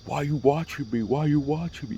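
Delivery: high-pitched imitation of an aggressor; mock confrontational. Stranger coming over to confront him, mock confrontational.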